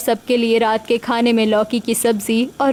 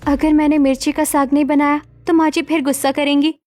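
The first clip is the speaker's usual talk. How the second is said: higher voice, understated worry; lightly voiced anxious daughter-in-law; worried Manisha; 4 semitones higher than usual.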